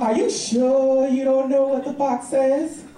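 put-on child voice. Niece voiced, slow.

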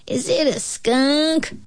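high, slow cub question; small high baby bear voice; squeaking bear cub. A narrator's reading. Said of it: "squeaked the bear cub".

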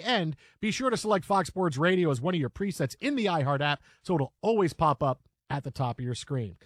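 punchy, energetic sports-radio announcer; brisk host throwing to the update; radio promo read. Acted. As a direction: read it like a live station plug. Reads station promo and introduces update.

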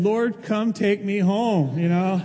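half-joking surrender to the Lord; mock dying prayer. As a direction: play up the drama of lying on the floor. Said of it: "and I said".

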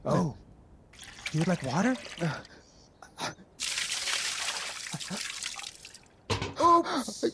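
low, taunting mock concern; mocking cruelty. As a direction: toy with him cruelly. Guard cruelly mocking thirst.

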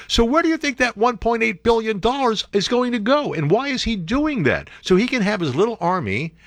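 rising outrage at the scheme; high, indignant disbelief; incredulous rant. Real, not acted. Ranting at the deal.

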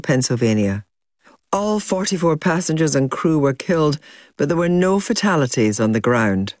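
measured, scripted presenter read; documentary link read to listeners; news documentary narration. Acted. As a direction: narrate the events as a serious news account.

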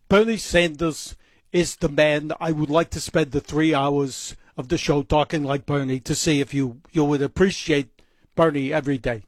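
mock politician impression with altered accent; Bernie Sanders voice. Radio host jokes to listeners about doing the whole show this way, senator impression. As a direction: put on a veteran senator's voice, hammed up. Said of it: "my perfect Bernie Sanders voice".

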